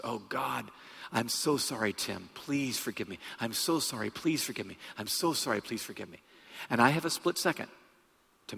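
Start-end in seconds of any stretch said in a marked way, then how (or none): 0.0-6.2 quietly voiced, softer begging pilot; a hint of the pilot's plea, kept soft; soft pleading apology.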